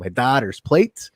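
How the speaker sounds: put-on slow Scandinavian Minnesota accent, rising at the end. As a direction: stretch "plate" in a Minnesota accent. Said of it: "in his very Scandinavian Minnesota accent".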